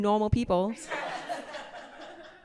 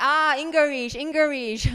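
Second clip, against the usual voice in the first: mock Chinese accent; 10 semitones higher, slower than usual. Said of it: "I was like".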